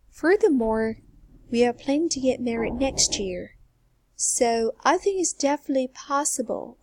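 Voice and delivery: pauses between sense groups, after "Well", "Furthermore" and each clause; group the words, pausing after "Well" and "Furthermore"; chunking. Shown as a demonstration. Teacher reading a model answer for students, clear chunking. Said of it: "I'm going to go like this".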